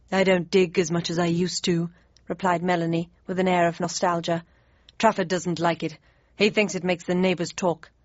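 lightly voiced gorilla, wistful. Melanie the gorilla speaking.

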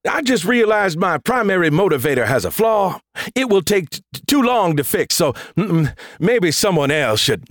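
high, stuttered excuses; nervous stammering. A narrator's reading. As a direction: backpedal in a panicky high voice. Scared Thor stammering excuses.

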